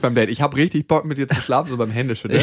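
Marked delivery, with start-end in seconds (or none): 0.3-1.7 übertrieben direkt. Retold or imitated. Parodiert Satz beim Händeschütteln.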